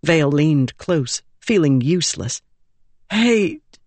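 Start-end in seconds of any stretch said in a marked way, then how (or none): 3.1-3.8 put-on high, hurt boy's voice; a dying boy forcing out a word; whispering boy. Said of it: "Grund whispered".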